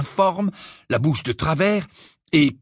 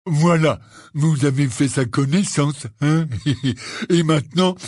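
Hagrid bluffing. Acted. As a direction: pretend all went fine.

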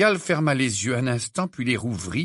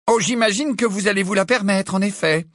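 through gritted teeth; 7 semitones higher than usual. A narrator's reading. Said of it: "les dents serrées".

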